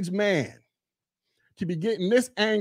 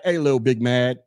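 casual question; 8 semitones lower than usual. Retold or imitated. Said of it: "be like".

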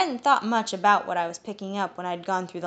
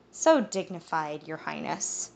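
disapproving; slower than usual. Acted. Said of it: "disapproving tones".

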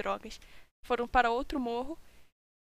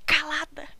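villain voice; 3 semitones higher, 5 dB louder than usual. Acted. Mysterious villain voice orders silence.

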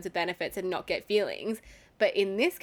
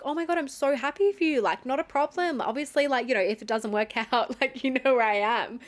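lightly voiced excited friend, higher; a hint of a cheerful guy being supportive; imitating him, upbeat; 5 semitones higher than usual. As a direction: play his happy, breezy reply. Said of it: "And he was like".

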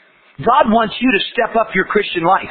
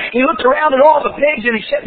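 usual speaking voice

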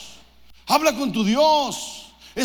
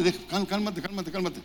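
softer, soothing calm down; calming hush; 3 semitones lower, 7 dB quieter than usual. Retold or imitated. God hushing a praying pastor who won't stop talking, softly. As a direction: settle him down gently, dropping away. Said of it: "me dice Dios".

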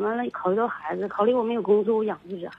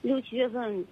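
turned away from the phone; far from phone; 4 dB quieter than usual. Real, not acted. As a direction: voice fading away from the mic. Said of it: "你声音越来越远了".

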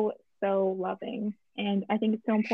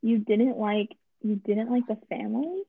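louder, rising disbelief; astonished question, pitched up at the end; incredulous; 5 dB louder than usual. Real, not acted. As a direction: challenge it in sheer disbelief. Disbelief at disliking the movie.

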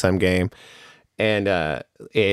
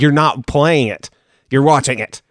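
"playing" and "watching" each punched higher; exasperated correction; 5 semitones higher, 4 dB louder than usual. Dad correcting his kid in Walmart, exasperated stress on "playing" and "watching". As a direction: set "playing" hard against "watching".

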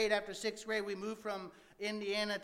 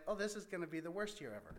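laughing through the embarrassing memory; rueful laugh; 6 dB quieter, faster than usual. Real, not acted. Retelling his seventh-grade humiliation to listeners, rueful laughing.

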